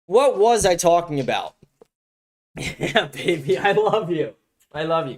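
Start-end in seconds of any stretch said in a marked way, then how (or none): 2.6-5.1 tender to the dog. Real, not acted. Streamer cooing at his dog.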